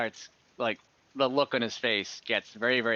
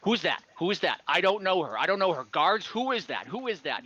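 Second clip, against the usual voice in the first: high, nervous, repeated questions; a paranoid lord panicking at a stranger; 6 semitones higher than usual. Acted. Paranoid lord demands who the stranger is, high and nervous. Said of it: "he gets really paranoid".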